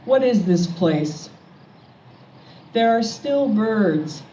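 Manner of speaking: slow, measured poem recital with pauses between lines; poetry reading. Acted. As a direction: read it as a poem, line by line, letting each image land. Poet reads own poems aloud.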